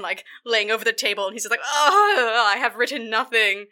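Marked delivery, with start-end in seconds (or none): 1.6-3.7 hammed-up drunken lament; drunk playwright. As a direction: open loud on a groan, then moan it out. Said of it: "he's drunk and".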